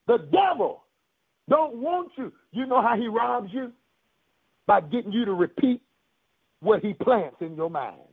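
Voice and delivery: emphatic preacher cadence, phrases set apart by pauses; preaching. Real, not acted. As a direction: declare it to the congregation. Preaches to the congregation.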